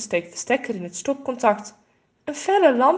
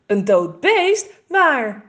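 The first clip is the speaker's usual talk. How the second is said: excited question; 4 semitones higher, 7 dB louder, slower than usual. Acted. Boy excitedly asks about dead animal.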